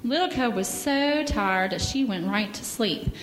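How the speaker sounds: gentle storybook reading; children's story time in church. Acted. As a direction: read the bear story to the kids.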